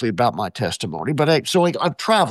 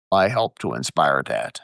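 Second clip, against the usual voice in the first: low imitation of a British-accented demon; hint of a low British accent; 10 semitones lower than usual. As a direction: quote the demon, pitched way down, lightly British. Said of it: "in this British accent".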